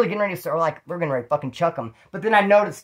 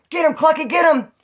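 much higher, louder egging-on shout; mock cheering yell; 11 semitones higher, 6 dB louder than usual. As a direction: yell like a neighbor cheering a fight through the wall. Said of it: "All of a sudden, I hear".

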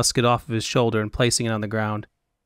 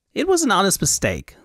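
high Elvunian fop; 8 semitones higher than usual. Acted. Fop figure voiced.

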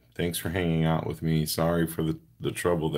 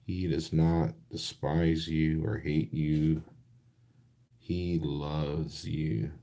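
sincere; slower than usual. Real, not acted. Sincere reassurance about God's love.

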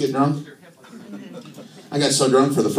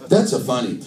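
light mock Italian; dry comic Italian accent; a touch of stand-up Italian; Italian-accented Jesus. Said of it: "do Jesus in an Italian accent".

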